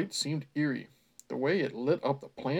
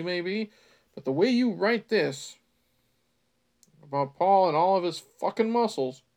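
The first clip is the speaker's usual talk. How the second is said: loud, exasperated rant at the author; 2 semitones higher, 4 dB louder than usual. Real, not acted. Reader ranting at the author about Paul's muscles, exasperated. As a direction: vent at the writer in disbelief.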